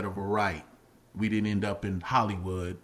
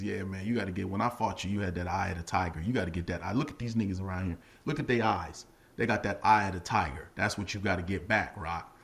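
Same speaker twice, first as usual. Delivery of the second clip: Apollo; 4 semitones lower than usual. Retold or imitated. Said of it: "Apollo takes him and says".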